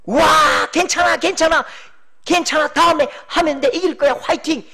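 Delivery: loud, high cheer to lift the team; rally the team from the stands; encouraging shout. Retold or imitated. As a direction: shout comfort after a conceded goal. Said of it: "그렇게 소리쳐 주는 것".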